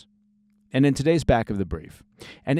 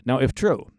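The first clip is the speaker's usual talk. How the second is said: if leaned on, a bit louder; stress on if; 2 semitones higher, 4 dB louder than usual. Real, not acted. News host cautioning listeners, stress on if. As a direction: press on the word if as a caution. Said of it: "I want to stress the word if".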